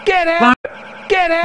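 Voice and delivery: high frantic yell; shouting. Acted. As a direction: scream it out.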